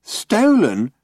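flat mocking echo of Stolen?; mimicking flatly. A narrator's reading. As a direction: echo Stolen? in a dull drone. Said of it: "mimicked Marvin".

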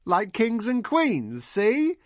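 very high, loud, drawn-out crowing; high-pitched showing-off yell; excited shout. A narrator's reading. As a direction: call it out slowly, way up high. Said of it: "Heather shouted".

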